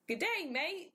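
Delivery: a bad, hammed-up Australian accent; a clumsy cliché Australian greeting; mock Australian accent. Shown as a demonstration. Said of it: "still a terrible accent".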